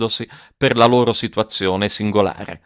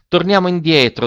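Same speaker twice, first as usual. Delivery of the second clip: louder, higher, brief order; curt; 8 semitones higher, 5 dB louder than usual. A narrator's reading. Alberto briefly tells his cousin to turn back, curt. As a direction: say it briefly, with raised pitch and volume. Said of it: "disse brevemente".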